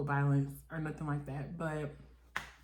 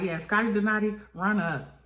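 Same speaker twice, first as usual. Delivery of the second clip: louder each "run up", rising higher; quoting Razor's challenge, getting louder and higher; mock yell building; 4 semitones higher, 5 dB louder than usual. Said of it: "she's like".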